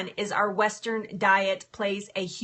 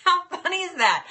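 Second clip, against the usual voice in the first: laughing delight; 9 semitones higher, 4 dB louder than usual. Real, not acted. Laughing at herself.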